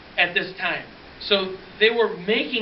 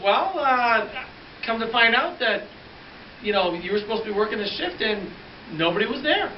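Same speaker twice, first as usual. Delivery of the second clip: pointed officer; 5 semitones higher than usual. Retold or imitated. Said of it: "And he goes".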